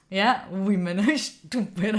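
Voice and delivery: slow mocking imitation of a guy, breaking into laughter; lightly voiced sexist gym guy; mock him, slowly, with a laugh; imitating Matt's talk. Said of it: "He does talk like this".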